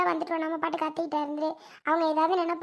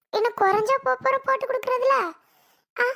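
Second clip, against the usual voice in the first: exasperated retort; 7 semitones higher, 4 dB louder than usual. Acted. Daughter argues back with mother.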